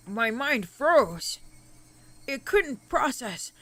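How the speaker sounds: slow, measured narration; dramatic story reading. Acted. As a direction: read it out like a novel, unhurried. Reads game narration aloud.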